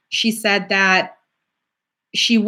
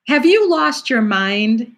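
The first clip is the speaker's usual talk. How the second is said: incredulous mentor; 3 semitones higher, slower than usual. Retold or imitated. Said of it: "you gotta hear her say it".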